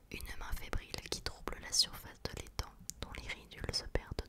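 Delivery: hushed, measured whispered narration; whispered story reading. Acted. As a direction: read it like a secret tale, whispering. Reads the book excerpt aloud.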